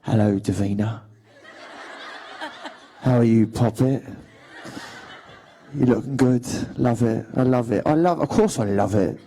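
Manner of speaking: put-on rough, dirty Cockney accent. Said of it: "really rough and dirty".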